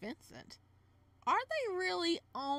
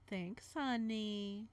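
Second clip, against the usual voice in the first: sweet and slow; much slower than usual. Acted. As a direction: linger on honey, slowly. Vincent voiced, slow and sweet.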